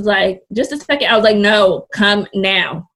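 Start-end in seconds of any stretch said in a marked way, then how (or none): 0.5-1.1 lightly mimicked mom, pitched up high; mom putting her off. Mom answering her daughter's call, lightly imitated putting her off. 1.4-2.9 a touch of urgency, hitting the first word hard; urgent summons. Retold or imitated. Daughter in labor calling mom over, mildly urgent demand.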